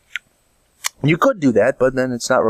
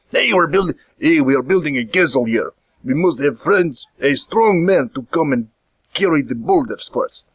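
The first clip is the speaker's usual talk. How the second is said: mock foreign-accented builder; medieval castle builder; 3 semitones higher than usual. Castle builder recruits a strong man for boulders, accented mock-earnest call. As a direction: call out formally for a strong helper.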